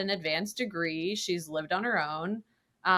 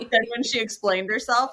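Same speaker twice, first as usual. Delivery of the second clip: ordinary talk, nothing marked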